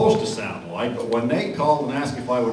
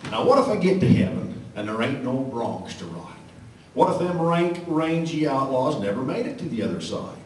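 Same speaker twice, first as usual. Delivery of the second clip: cowboy poem recitation. Acted.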